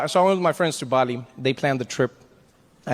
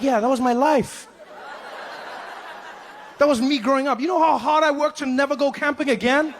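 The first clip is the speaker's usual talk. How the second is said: mock-exasperated retort pitched up; incredulous retort; 8 semitones higher than usual. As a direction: scoff at the idea, voice climbing. Retort to camping friend.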